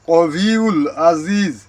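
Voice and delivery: slow careful recitation. Shown as a demonstration. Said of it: "এই জায়গায় হবে".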